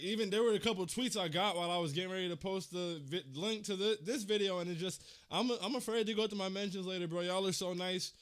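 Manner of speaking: fighting tears while thanking the fans; getting emotional. Real, not acted. Fan streamer thanking viewers after a season loss, choked up. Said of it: "before I started getting emotional".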